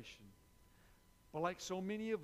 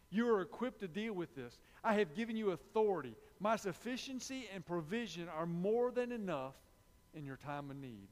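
God assuring Paul; 6 dB louder than usual. Retold or imitated. God voiced, empowering.

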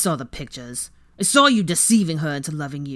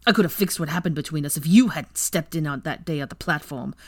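louder, resentful rant; Weasley accuses Draco, bitter and loud; bitter accusation; 4 dB louder than usual. Acted. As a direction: pour out the grievance, rising in anger.

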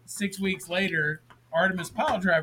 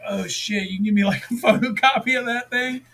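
mock awe; 5 semitones higher, 4 dB louder than usual. Mock awed request to biker.

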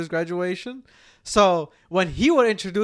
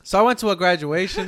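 forced loud voice; 4 dB louder than usual. Real, not acted. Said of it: "I could tell you're forcing".

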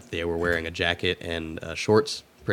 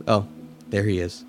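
monotone voice. Retold or imitated. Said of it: "in a monotone voice".

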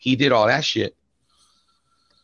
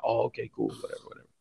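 brushed-off reply; 12 dB quieter, faster than usual. Retold or imitated.

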